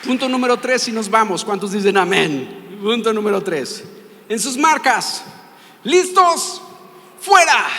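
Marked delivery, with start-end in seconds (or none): 4.3-7.7 rising, louder call, like starting a race; race starter shout. Pretend. Preacher starting a race for the congregation, loud call. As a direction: bark out the countdown, each word louder.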